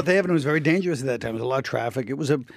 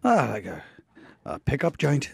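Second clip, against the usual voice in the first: put-on Irish accent; 3 semitones lower, 4 dB quieter than usual. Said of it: "I'll speak in Colin".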